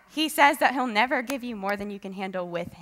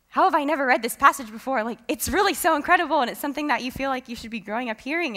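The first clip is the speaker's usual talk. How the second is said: retold amazement, higher and louder; amazed; 4 semitones higher, 5 dB louder, faster than usual. Speaker recalls reading the passage for the first time, amazed. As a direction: recount a discovery with eager wonder.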